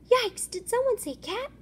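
startled squeak. Acted. Startled fish voice.

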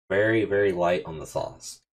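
talking while chewing; words muffled by food; mouth full of pizza. Real, not acted. Seen 1: holds slice at mouth, jaw chewing while talking.

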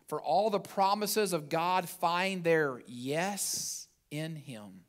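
slow, deliberate verse read; scripture reading. Acted. Pastor reads the verse aloud to the congregation. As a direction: lay each word down slowly.

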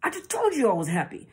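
restrained, insistent denial; suppressed intensity. Shown as a demonstration. Narcissist hiding true feeling behind the words, restrained intensity. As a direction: insist on it while holding the feeling back. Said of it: "the intensity behind the words that are coming out".

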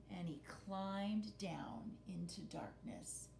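hushed whisper into the dark; whispered suspense. A narrator's reading. Mother reading suspense to children, whispering. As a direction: breathe it out like a secret.

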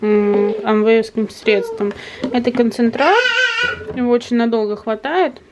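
slushy lisp, numb mouth. Real, not acted. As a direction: lisp through a numbed cheek. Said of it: "шепелявым голосом".

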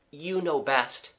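slow, courteous reply. Acted. Gerald deferring to the young man, courteous. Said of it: "said Gerald courteously".

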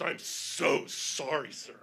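very slow, drawn-out "so sorry"; emphatic apology. Retold or imitated. Handler apologising to the mauled traveler, emphatic. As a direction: stretch out the apology earnestly.

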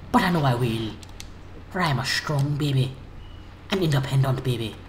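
put-on grandiose baby monologue; mock epic narrator. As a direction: declaim like a dramatic movie hero.

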